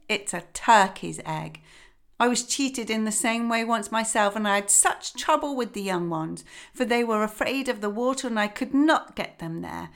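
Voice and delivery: lightly voiced knowing old duck; a hint of a gossipy old hen; mildly sure of herself.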